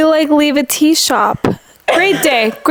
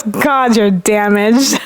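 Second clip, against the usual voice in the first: deadpan; 3 semitones lower, much slower than usual. Retold or imitated. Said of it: "I think I said it so deadpan".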